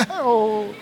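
short imitated whimper; mock child crying. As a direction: fake a child's early wail. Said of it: "he start crying".

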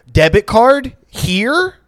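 high, very slow pidgin to the cashier; old man's broken English. Retold or imitated. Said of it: "I've seen old people do this".

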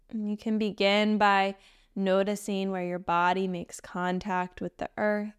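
gentle meditation guide with long pauses; unhurried, even meditation voice; guided meditation. Acted. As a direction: guide them into stillness, leaving space between phrases.

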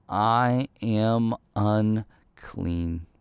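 each word drawn out very slowly; David admits his guilt, very slowly; slow confession. Shown as a demonstration. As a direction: let the confession land word by word. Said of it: "what David is saying here is".

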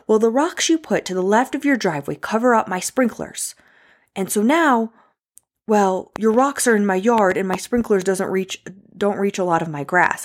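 held-back mock yelling. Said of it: "And she's yelling, mind you, she's yelling".

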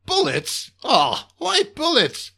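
high slow drawn-out whine; whiny disappointed boss. Acted. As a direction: sound let down.

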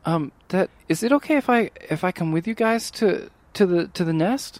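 lightly voiced hesitant student; a touch of nervous politeness; timid Olivia. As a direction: ask shyly, stumbling over the request. GM voices Olivia asking to join.

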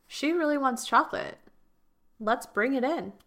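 a cosmic helper ready to deliver; the universe voiced. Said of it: "The universe is gonna be like".

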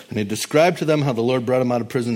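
fast, with a laugh breaking through; quick chuckling retelling; quick laughing read. Shown as a demonstration. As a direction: rush it, amused at the story. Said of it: "And he described ... out of prison".

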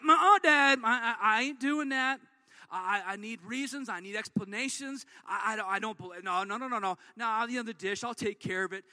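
preacher imitating his daughter's loud, sassy refusal; sassy daughter refusing. Father imitating daughter refusing chores, defiant and sassy. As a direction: play the eight-year-old who won't do it, loud and defiant at the start. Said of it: "But she's like".

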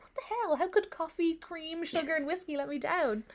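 high-pitched, baffled complaint; mock indignation. Acting out her first-taste disappointment.

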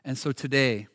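prayer. Acted. Leads closing prayer.

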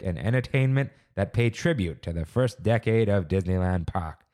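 lightly voiced old-timey announcer. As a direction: read it like a fifties radio host. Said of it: "should I read this in, like, an old-timey voice?".

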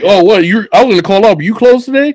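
eager employee. Acted. Worker volunteering for a manager they like, mock eager. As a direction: play a willing worker jumping at a shift. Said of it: "you find a manager you like".

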